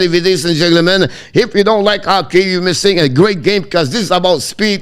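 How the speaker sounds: rapid, unbroken running commentary; live hockey play-by-play. Real, not acted. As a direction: follow the puck breathlessly from pass to pass.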